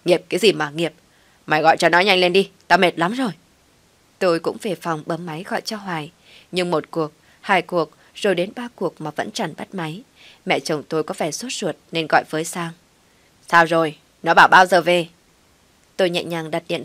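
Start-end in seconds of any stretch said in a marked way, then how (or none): 0.0-3.3 loud, impatient snapping; angry retort. A narrator's reading. Mother-in-law ordering the narrator to phone, loud and impatient. 13.5-15.1 loud impatient call. A narrator's reading. Mother-in-law calling from another room, loud and impatient. Calls out across the house.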